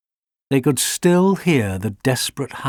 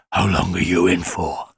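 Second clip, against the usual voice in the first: German shepherd; 5 semitones lower than usual. A narrator's reading. Big German shepherd Boris asks.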